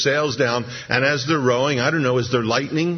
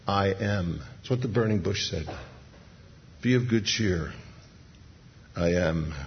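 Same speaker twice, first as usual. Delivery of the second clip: calm Jesus; 4 semitones lower than usual. Retold or imitated. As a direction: settle their fear gently. Jesus calms the disciples.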